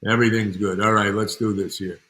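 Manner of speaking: lightly imitated producer, punchy phrase openings; a hint of a forceful old-hand producer; Al Ruddy impression. Producer friend agrees to consult on the film, light Al Ruddy impression. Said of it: "he talked like this".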